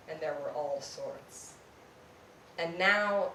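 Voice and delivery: measured, deliberate poetry reading with pauses; poem reading. Acted. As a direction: read it like a poet at a live reading. Reads a poem aloud.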